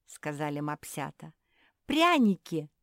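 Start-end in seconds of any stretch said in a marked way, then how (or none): 1.9-2.7 loud exclamation; exclaimed. A narrator's reading. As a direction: shout it out happily. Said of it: "воскликнули остальные".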